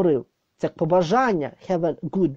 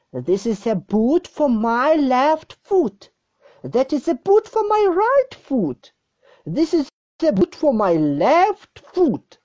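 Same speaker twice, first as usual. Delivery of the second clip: model reading; 6 semitones higher than usual. Shown as a demonstration. Teacher models sentences for repetition. (повільне чітке читання для повторення)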